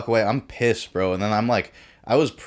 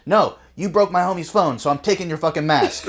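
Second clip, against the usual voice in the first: mock defiant refusal; 8 semitones higher, 4 dB louder than usual. Brazilian refusing to return mask.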